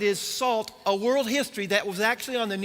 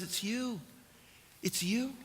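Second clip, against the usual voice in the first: hushed pointed quote; 9 dB quieter than usual. Acted. Jesus points to the crowd.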